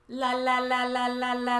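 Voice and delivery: singsong la la covering his ears; mock la-la-la. John ignoring his complaining people, childish singsong. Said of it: "that's John of England".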